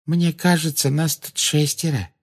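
placid, untroubled remark; calm. A narrator's reading. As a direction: point it out gently and unhurriedly. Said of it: "спокойно промолвила".

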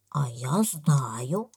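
very slow, drawn-out list; innocent baby elephant. A narrator's reading. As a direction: count them off slowly as a baby elephant. Baby elephant answers slowly. (слонёнок, медленно и простодушно)

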